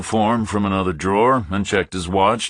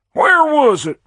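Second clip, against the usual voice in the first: higher, pinched voice of a busy pompous captain; fussy fat captain; 7 dB louder than usual. A narrator's reading. Captain dismissing a stranger, higher pompous voice.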